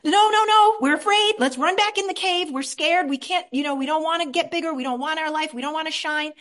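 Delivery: high, loud panicked pleading; scared inner child. Acted. Frightened inner part refusing to grow, high and pleading. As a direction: beg like a frightened kid. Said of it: "that same part of me comes up and says".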